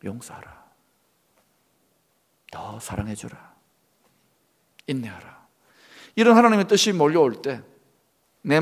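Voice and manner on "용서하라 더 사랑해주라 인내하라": very soft, low voice of God; hushed, low command with long pauses; God's quiet counsel. Acted. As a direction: speak slowly and gently, barely audible. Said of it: "뭐라고 하십니까".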